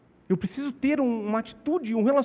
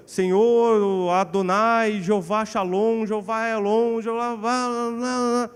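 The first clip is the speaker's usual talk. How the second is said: mock-solemn, loud, drawn-out invocation; oração pomposa em paródia; 3 dB louder, much slower than usual. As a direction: parody a long-winded, pompous prayer. Zomba de oração pomposa e longa. (oração pomposa e arrastada, em tom de zombaria)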